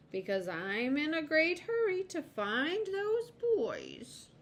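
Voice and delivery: high, drawn-out squirrel voice; determined high-pitched storybook squirrel; earnest squirrel. Acted. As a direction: stress your urgent errand in high pitch. Voices Mister Squirrel in a hurry.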